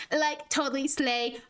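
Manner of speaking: slow mock Valley girl accent. Shown as a demonstration. Streamer demonstrating the easier accent, Valley girl drawl. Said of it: "it's a bunch of likes and yeahs and slays".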